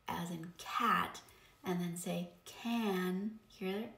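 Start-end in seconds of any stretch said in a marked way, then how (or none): 2.4-3.4 can drawn out slowly with a nasal A; slow can, buzzing nasal vowel; whiny nasal A. Shown as a demonstration. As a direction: stretch the whiny A in can through the nose. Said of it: "it's that whiny sound".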